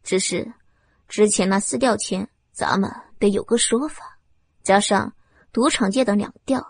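low, icy menace; coldly threatening villain; cold threat. Acted. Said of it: "冰冷冷的面孔".

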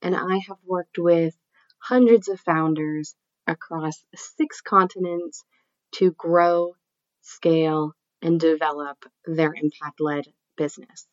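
nasal voice from a cold; nasally voice. Real, not acted. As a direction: speak through a blocked nose with a cold. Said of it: "my nasally voice".

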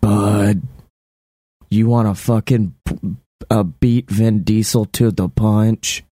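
lightly put-on low action star; tough-guy voice. Action star proposing a scheme to his buddy, low tough-guy voice. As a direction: pitch it low like an action hero. Vin Diesel voice pitching to partner.

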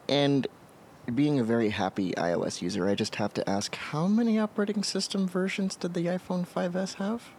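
mildly snarky, leading question; a little snarky. Real, not acted. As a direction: needle them gently, lifting high on the question. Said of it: "in a little bit of a snarky way".

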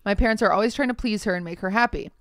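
measured story-reading voice; reading aloud. Acted. Podcast host reading a Reddit post to co-host, reading aloud. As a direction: read the post out evenly.

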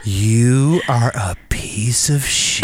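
slow hushed whisper, mocking himself; whispered self-insult. To himself in the van, a slow mock whisper. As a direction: breathe it out like a private insult.

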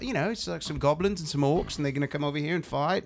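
soft mock Kiwi accent; Peter Jackson. Podcaster mimicking director pitching goblins and orcs, light Kiwi accent. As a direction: lightly imitate a New Zealander, voice softened. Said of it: "with his little Ki-, Kiwi accent".

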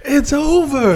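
high, loud, drawn-out "it's over"; mock triumphant yell. Co-host blurting the film's closing line, loud mock yell. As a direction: holler it out long and high.

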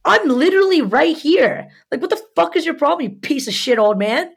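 high, loud, heated rant; re-enacted angry outburst; retold snapping. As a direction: lash out at him, pitch soaring then easing. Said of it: "I'm just snapping at this point".

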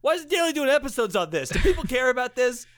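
high, exasperated complaint; frantic disbelief; exasperated protest. Acted. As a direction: plead in disbelief.

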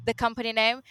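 ordinary talk

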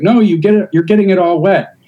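a hint of mock Asian accent. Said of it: "I didn't wanna be like".

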